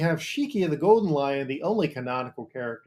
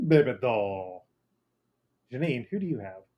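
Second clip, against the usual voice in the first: fake Jamaican accent. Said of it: "talks like offensive Sebastian the Crab meets a person doing a Jamaican accent".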